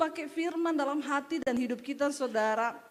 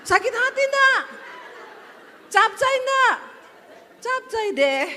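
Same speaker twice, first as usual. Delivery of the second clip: much higher, loud laughing outburst; laughing shout; 9 semitones higher, 9 dB louder than usual. Pretend. Preacher shouting the punchline to the congregation, loud and laughing. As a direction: burst out with a loud laughing jab. Punchline heard instead of apology.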